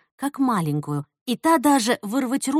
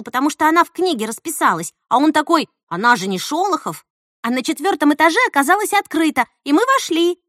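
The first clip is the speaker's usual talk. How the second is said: higher, louder, fast rush; agitated; 6 semitones higher, 5 dB louder than usual. Acted. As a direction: pour it all out. Nastya rushes through her story.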